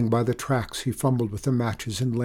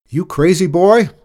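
loud, raised bellow; 8 semitones higher, 13 dB louder than usual. A narrator's reading. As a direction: bellow at the reckless boy. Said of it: "the man bellowed".

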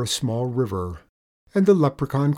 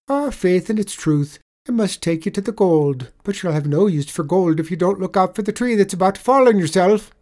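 higher, louder sly Irish voice; sly leprechaun; 7 semitones higher, 6 dB louder than usual. Acted. Leprechaun tricking the tradesman, sly higher voice. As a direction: wheedle him into looking away.

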